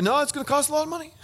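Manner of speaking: high, fast, pushy cop voice; hammed-up threatening officer; mock stern captain. Captain insisting on the fine, mock stern. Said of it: "He just like".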